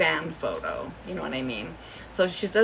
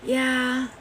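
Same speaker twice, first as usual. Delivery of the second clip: tearful yeah; 7 semitones higher, 4 dB louder than usual. Retold or imitated. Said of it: "And she's like".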